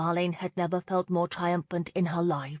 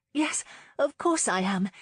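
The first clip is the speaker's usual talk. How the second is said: insisting; 3 semitones higher than usual. Acted. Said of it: "she insisted".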